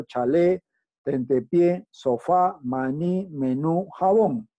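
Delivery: "chalé, tentepié, sofá, maní, menú, jabón" each stressed on the final syllable; stress on last syllable. Shown as a demonstration. Teacher giving examples of agudas to students, final syllable stressed in "chalé, tentepié, sofá, maní, menú, jabón". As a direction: read the examples as a list, landing on the last syllable: cha-LÉ, tente-PIÉ, so-FÁ, ma-NÍ, me-NÚ, ja-BÓN. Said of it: "la mayor fuerza de voz en la última sílaba".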